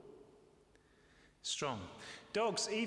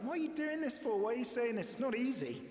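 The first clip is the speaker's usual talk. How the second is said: Peter protesting; 5 semitones higher than usual. Retold or imitated. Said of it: "Peter's like".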